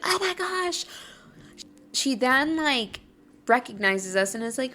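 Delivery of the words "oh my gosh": mock fangirl squeal. What she avoids in the quiet garden, mock fangirl squeal. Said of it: "I'm not trying to be like".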